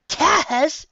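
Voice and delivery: high, loud yelp; startled yelp. Acted. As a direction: yelp the name in sudden surprise. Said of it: "yelps Mommy".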